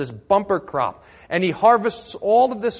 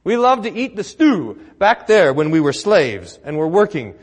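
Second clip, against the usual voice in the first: mock complaining; 6 dB louder than usual. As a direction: ham up the grumbling Israelites pining for Egypt. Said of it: "they're complaining".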